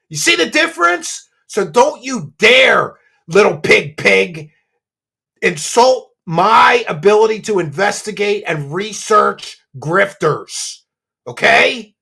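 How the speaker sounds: forceful scolding with drawn-out key words; indignant warning. Real, not acted. Investigator warns rival not to insult research, indignant. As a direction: warn them off, leaning hard on each insult.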